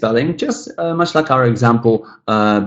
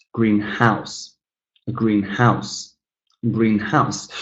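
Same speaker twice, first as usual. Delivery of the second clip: "greenhouse" with a little more weight on house; green-HOUSE, said as two words; stress on house; 4 dB quieter, much slower than usual. Shown as a demonstration. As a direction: lean slightly on house in greenhouse. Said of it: "stressed a little bit more".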